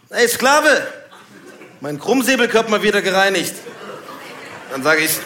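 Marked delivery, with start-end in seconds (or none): 0.1-3.5 1 bouncer greeting. Retold or imitated. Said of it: "der begrüßt mich meistens irgendwie so".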